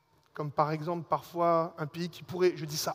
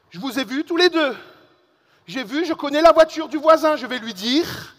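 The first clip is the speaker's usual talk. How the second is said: put-on loud, higher Alsatian accent, scolding; 6 semitones higher, 11 dB louder than usual. Alsatian lady threatening boys over the neighbour's car, loud Alsatian accent. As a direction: put on a shouting Alsatian lady accusing you. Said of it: "Je fais bien l'accent alsacien aussi".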